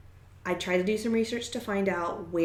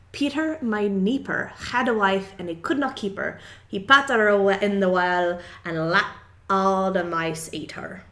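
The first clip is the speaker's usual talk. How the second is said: put-on awful Scottish accent; 6 dB louder than usual. Host reading the Scottish rhyme in a self-mocking bad Scottish accent. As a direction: read the old verse in a deliberately poor Scottish accent. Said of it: "the most awful Scottish accent I can".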